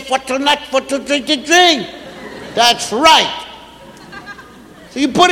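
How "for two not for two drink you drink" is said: lightly voiced small child; a hint of a mumbling toddler. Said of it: "You said".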